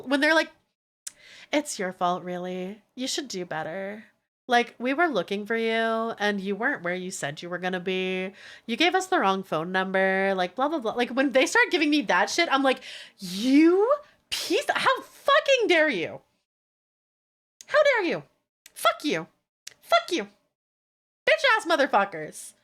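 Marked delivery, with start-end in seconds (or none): 1.5-10.9 lower, softer condescending mimic; mocking imitation. Mocking the blaming staff. 13.2-22.5 high, drawn-out outraged cursing; mock furious outburst. Imagined outburst at staff.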